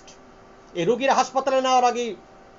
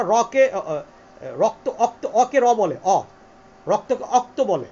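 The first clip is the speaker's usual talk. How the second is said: Rangpur dialect; 2 semitones lower, 3 dB louder, much slower than usual. Shown as a demonstration. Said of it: "রংপুর অঞ্চলের লোকরা".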